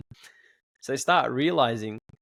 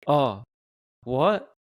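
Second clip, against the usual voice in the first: higher, rising mock disbelief; shocked kids; 4 semitones higher, 3 dB louder than usual. Dad retelling his kids' shock at the money left, mock shocked. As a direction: imitate the kids' stunned reaction. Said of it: "They were shocked. They were freaking out".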